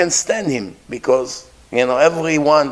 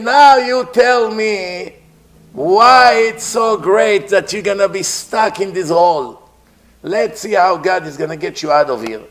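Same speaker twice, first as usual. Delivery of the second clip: taunting king. Acted. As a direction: jeer down into the pit. King mocks Jew in pit.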